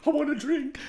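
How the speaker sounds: high, pleading thirsty voice; craving whine. Retold or imitated. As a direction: whine for a drink. Mimicking craving during dry July.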